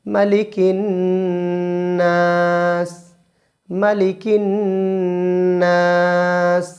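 মালিকিন said short with no drawn vowel; no stretch on মালিকি. Shown as a demonstration. Teacher showing মালিকিন without elongation. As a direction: keep মালিকিন clipped-short, then hold নাস. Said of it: "মালিকি কোনো টান হবে না".

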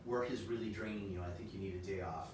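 playful doctor's advice; a hint of a caring doctor. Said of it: "This is your doctor speaking".

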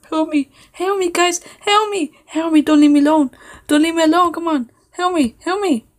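high-pitched hammed-up pleas for help; mock panic. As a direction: play-act being stuck and desperate. Stuck in game, pleading for help.

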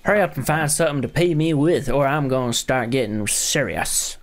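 lightly put-on southern accent. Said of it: "doing a southern accent".

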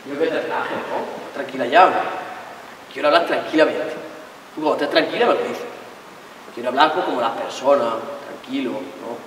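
soft, low, measured appeal; calm talk. Acted. Boyfriend telling his girlfriend to relax, pointedly calm. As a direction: drop it low and soft, show off your composure. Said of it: "Quiero que hablemos tranquilo".

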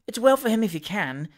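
mildly emphatic retort on "well for him". A narrator's reading. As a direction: put gentle force on "if he can". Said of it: "said Missus Pott emphatically".

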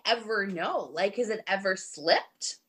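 hushed gossip whisper; conspiratorial whisper. Real, not acted. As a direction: lean in and whisper the secret.

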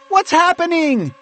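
high, loud confused shout; high-pitched alarmed call. A narrator's reading. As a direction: call up the question urgently. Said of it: "Michael called out".

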